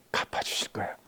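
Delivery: soft whispered promise. Retold or imitated. Jesus whispering comfort to a forgotten servant. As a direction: breathe it like a secret. Jesus voiced, tender secret.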